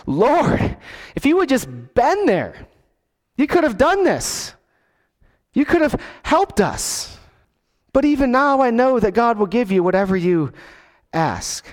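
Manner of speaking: pleading cry, pitch climbing high on could have; a grieving sister crying out to her Lord, mildly acted; tearful plea. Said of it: "she cries out to him".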